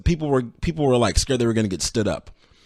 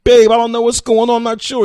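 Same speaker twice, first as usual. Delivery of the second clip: put-on higher, louder, sugary innocent girlfriend; girlfriend's sweet voice; 9 semitones higher, 7 dB louder than usual. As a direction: play dumb sweetly, pitched up. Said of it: "And she calls".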